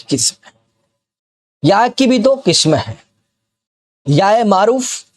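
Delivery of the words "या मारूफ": या in मारूफ stretched long and slow; slow drawn या. Shown as a demonstration. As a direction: pull out the या in या मारूफ. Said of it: "जो खींच कर पढ़ी जाए".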